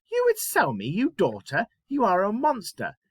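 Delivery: high-pitched, outraged disbelief; aghast daughter confronting her father; shocked. Shown as a demonstration. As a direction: leap up high in horrified shock. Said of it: "say it like she's really shocked".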